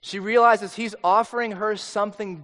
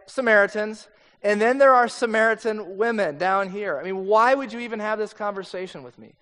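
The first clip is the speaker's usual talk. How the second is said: voicing the woman; 2 semitones higher, 4 dB louder than usual. Preacher voicing the Samaritan woman.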